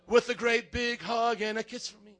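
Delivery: slow, lightly sung Barney voice. Retold or imitated. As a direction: croon it like the purple dinosaur, lightly. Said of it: "like he's Barney".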